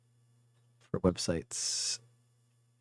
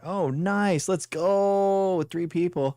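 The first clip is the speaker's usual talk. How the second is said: excited; 9 semitones higher, 3 dB louder, much slower than usual. Real, not acted. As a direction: pitch jumps way up, thrilled. Players joining the game.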